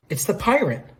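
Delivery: high, startled outburst; sudden excited realisation. Acted. Jill suddenly spots the pirate, excited outburst. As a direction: blurt it out as it dawns on you.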